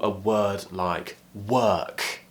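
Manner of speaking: "work" with long er, no R sound; non-rhotic work. Shown as a demonstration. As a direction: say "work" as long "wer-k", R silent. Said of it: "we're not pronouncing the R here".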